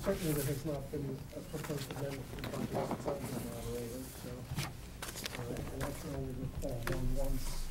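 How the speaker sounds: very quiet, soft voice dropping away.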